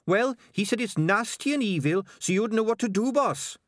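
high-pitched excitable rat reporting trouble; Sardines the rat. A narrator's reading. Rat reporting trouble to his boss, high-pitched and urgent.

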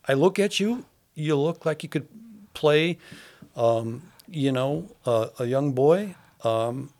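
lifted, brighter voice playing a director at an audition; imagined casting director. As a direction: pretend you're the director sizing up an actor.

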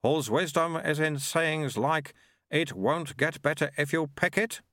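lightly voiced sneering monk; mocking monk. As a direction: tease the old man. Rin Po mocks.

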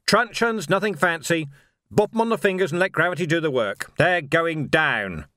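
shouted orders. Acted.

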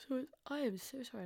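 talking through a yawn; words stretched by a yawn. Real, not acted. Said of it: "I can't stop yawning".

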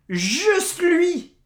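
breathless high whisper; whispered disbelief. Real, not acted. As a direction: let it out on pure air. Stunned punchline. (chuchotement incrédule)

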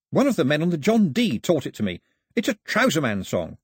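lightly animated storyteller; lightly voiced Pilou. Pilou explains the tune to Mao, lightly animated.

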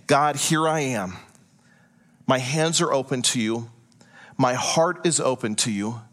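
low, measured words of surrender; humble prayer. Acted. Voicing a surrender prayer to God.

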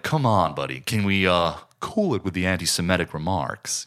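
lightly mimicked, overdone American accent; over-the-top American accent. Fan quoting a favorite film performance, over-the-top American accent. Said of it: "over the top American accent".

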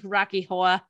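imitated New York "Horror"; New York accent. Retelling coworkers' Rocky Horror, New York accent. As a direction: swallow the r of "Horror" like a New Yorker. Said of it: "coworkers from New York".

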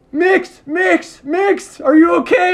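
high, loud worried calling of Mix; friends shouting. Retold or imitated. Friends rushing downhill, shouting his name in alarm. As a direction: call out to him in alarm from the hill. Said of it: "they're like".

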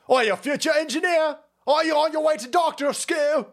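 high-pitched mock Irish heckling; bad Irish accent. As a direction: taunt in a badly faked Irish accent. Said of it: "I can't do an Irish accent".

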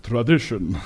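put-on low Ukrainian-accented Tevye voice; sing-song Ukrainian accent, Fiddler style. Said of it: "in sort of a Ukrainian type accent".

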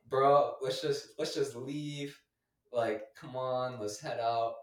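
slow retold plea to a buddy; coaxing. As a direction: draw the words out, talking a friend down. Retelling coaxing his friend to leave.

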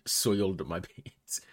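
slow, drawn-out mock quote; teasing imitation. Host teases friend about his childhood office request, slow mock quote. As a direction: stretch the words out teasingly. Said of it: "I hope you said it like that too".

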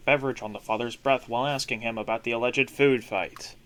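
fast, anchor-style news read; newscaster voice. Pretend. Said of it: "a newscaster voice".

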